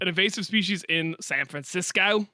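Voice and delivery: put-on Aussie vowels; imagined Australian accent. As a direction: say it as an Australian might, playfully. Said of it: "I imagine, how they would say that".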